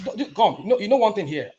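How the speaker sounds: loud, high protest to cut in. Real, not acted. Speaker shouting down his debate rival to be heard. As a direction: shout over him to take the floor.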